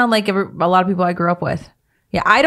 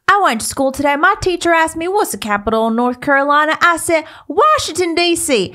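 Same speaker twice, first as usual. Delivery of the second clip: put-on high-pitched Southern kid; high, drawn-out kid voice from a comedy; movie kid impression; 8 semitones higher than usual. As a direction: recite it like a bratty movie kid. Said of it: "Ricky Bobby scene where the kid's like".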